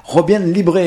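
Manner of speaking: "Libre" said Spanish-style as lee-bray; Spanish pronunciation. Shown as a demonstration. Radio host introduces the festival's name, "Libre" pronounced the Spanish way. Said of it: "on la prononce à l'espagnol".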